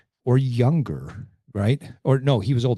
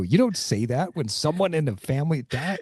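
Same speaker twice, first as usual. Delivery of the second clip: much higher, fast, aghast disbelief; incredulous outrage; 8 semitones higher than usual. Retold or imitated. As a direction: react like the whole room is appalled. Group's outraged reaction.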